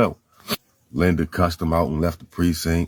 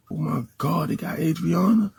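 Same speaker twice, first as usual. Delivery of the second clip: pitched-up voice of someone hearing bad news; shocked reaction; 10 semitones higher than usual. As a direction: gasp it out as a stunned woman.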